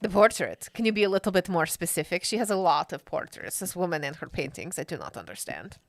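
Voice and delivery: a hint of Bond villain, formal and puzzled; lightly voiced accented Will. Will questioning kids about the portrait, lightly accented puzzlement. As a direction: ask for specifics with a light put-on accent.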